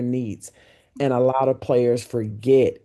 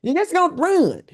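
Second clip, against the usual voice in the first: imitating Van; 7 semitones higher than usual. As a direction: lean into his accent on the last word. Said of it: "that's how he talked".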